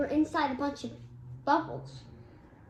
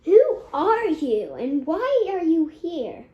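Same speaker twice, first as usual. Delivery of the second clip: loud demanding question; 5 semitones higher, 10 dB louder, slower than usual. Acted. Child voices Kai confronting stranger.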